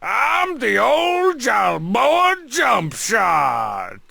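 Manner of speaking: put-on high, babbling little-kid voice; toddler gibberish voice. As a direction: babble it out like a two-year-old. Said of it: "You sound like a two years old boy".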